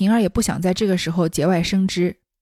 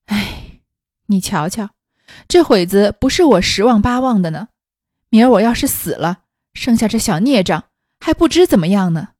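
heavy sigh; 4 dB louder than usual. Acted. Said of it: "长叹一声说道".

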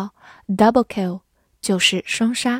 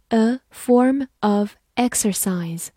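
slow, "form" and "exercise" set apart; slow model reading; slower than usual. Shown as a demonstration. Teacher repeats an example for learners, slow model reading. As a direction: say "a form of exercise" slowly, word by word.

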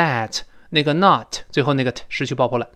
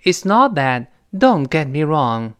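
slightly raised, measured model reading; read aloud clearly; slower than usual. Shown as a demonstration. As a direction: read it out for the class to repeat, drawing out the second phrase. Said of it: "跟老师把整个这句话大声读一遍".

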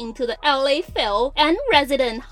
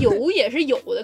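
ordinary talk

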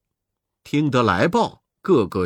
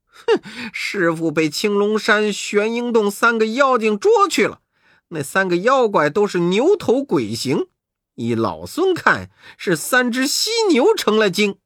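lightly higher monkey voice; Monkey King; 4 semitones higher than usual. Acted. Monkey King telling his brothers about the rhino demons. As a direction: report with a cocky snort. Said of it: "悟空说".

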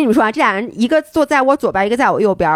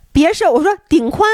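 coaching shout; 7 semitones higher than usual. Retold or imitated.

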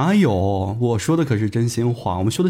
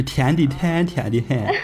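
Shaanxi accent; slower than usual. Shown as a demonstration. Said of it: "用我们陕西话说".

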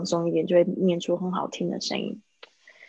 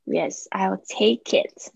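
slow, linked I'll take it; teacher modelling the linked phrase slowly; linking demo; much slower than usual. Shown as a demonstration. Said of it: "注意一下这个连音".

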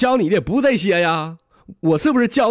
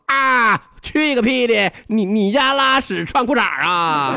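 higher-pitched comic comeback; indignant retort; 7 semitones higher, slower than usual. Acted. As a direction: answer back as an offended crow. Crow retorts in acted quarrel.

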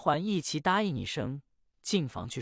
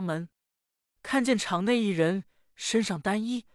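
put-on higher, plaintive girl's voice; pleading young daughter; 3 semitones higher than usual. Daughter begs her mother to save her, higher and plaintive. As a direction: confess and beg for her life.

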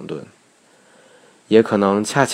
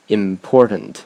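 "important" with a stop after "im", then firm "por"; pause before stress; slower than usual. Shown as a demonstration. Teacher giving a practice word, "important" split by a pause. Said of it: "可以多拿几个单词练练".

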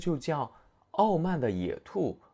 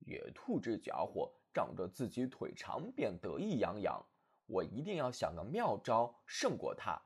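much softer, murmured inner thought; soft private scheming; 3 semitones lower, 5 dB quieter than usual. Acted. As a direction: think it to yourself under your breath. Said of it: "刺猬想".

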